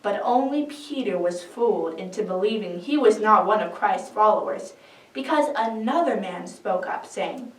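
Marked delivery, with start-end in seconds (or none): none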